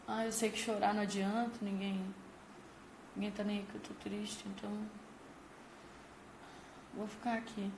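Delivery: quiet, hopeless little voice, trailing off; resigned child. Retold or imitated. A child left at school giving up, quiet and resigned. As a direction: speak as a child who has given up crying.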